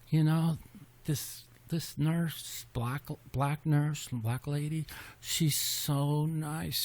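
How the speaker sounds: soft, slow, near tears, quoting his father; tearful quiet dad. Retold or imitated. Sick dad telling his son about the kind nurse, softly tearful. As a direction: imitate a moved old father close to tears. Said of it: "he's like".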